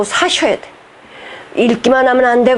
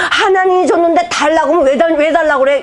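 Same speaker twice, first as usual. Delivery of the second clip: whiny complaint; 5 semitones higher than usual. Retold or imitated. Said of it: "이렇게 우리는 하잖아".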